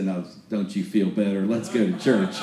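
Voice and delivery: retold with a laugh breaking through; dad's line, laughing. Preacher laughing while quoting his dad. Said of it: "he'd say".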